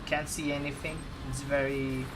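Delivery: lightly put-on Finnish accent in broken English; a hint of Finnish accent, broken English. Impersonating a Finnish viewer greeting Steven, Finnish accent. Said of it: "Another guy's name is Jarmo".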